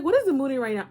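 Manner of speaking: loud and high, sudden alarm; loud flustered self-question; mock panic. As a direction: blurt it out loud. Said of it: "I'm like".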